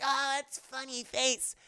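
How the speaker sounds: put-on little kid amused; giggly small child. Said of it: "the kid's like".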